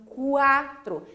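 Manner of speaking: quatro as cu-a-tro, u clearly voiced; sounded U. Shown as a demonstration. Teacher repeating quatro for learners, U pronounced. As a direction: open up quatro so the u stands out. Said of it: "Aí eu pronuncio".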